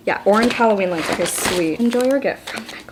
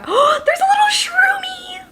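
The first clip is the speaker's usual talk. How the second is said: delighted whisper; slower than usual. Real, not acted. Delighted at mushroom.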